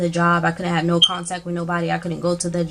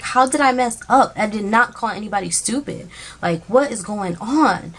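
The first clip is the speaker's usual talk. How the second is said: upset protest; 3 semitones higher than usual. Retold or imitated. Protests to the manager, tearful.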